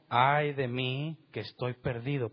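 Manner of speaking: slowly, weighing each word of ay de mí; slow lament. Shown as a demonstration. Preacher quoting Isaiah's cry to the congregation, slow and grave. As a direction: let "Ay" hang, slow and grave, then fall. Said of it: "¿Qué fue lo que dijo?".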